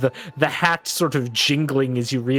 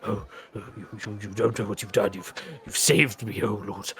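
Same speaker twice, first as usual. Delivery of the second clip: relieved; 4 semitones lower, 6 dB quieter, faster than usual. Acted. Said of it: "lets out this sigh of relief".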